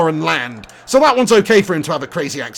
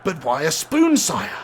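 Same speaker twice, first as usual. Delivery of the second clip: timid servant; 4 semitones lower, 5 dB quieter than usual. Retold or imitated. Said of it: "Alan Rickman, legend".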